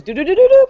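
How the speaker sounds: rapid "do-do-do" climbing noise; imitated scurrying. Guest showing how the snake climbs your leg, playful sound effect. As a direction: sound out a snake racing upward.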